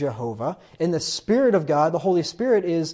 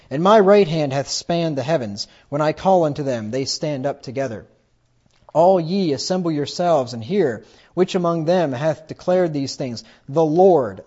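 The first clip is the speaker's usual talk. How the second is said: louder, solemn reading of God's words; scripture reading; 4 dB louder than usual. Acted. Preacher reading God's words aloud to the congregation, louder and solemn. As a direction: declaim the verse like the voice of God.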